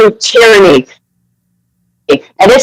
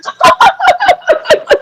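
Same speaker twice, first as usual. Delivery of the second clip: a high burst of real laughter; a sudden high giggle; 3 dB quieter than usual. Real, not acted. Laughs at own confession.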